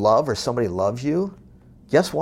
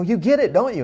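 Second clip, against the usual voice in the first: eager question; 9 semitones higher, 5 dB louder than usual. Retold or imitated. Excited retold exchange with mover.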